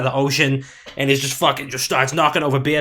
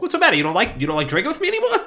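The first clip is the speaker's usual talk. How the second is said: much higher, fast, laughing hurt Italian mom; 9 semitones higher, faster than usual. Retold or imitated. Host mocking Chris as an offended Italian mom, high and laughing. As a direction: rattle off the guilt trip like an offended mother, laughing. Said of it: "the Italian mom in me".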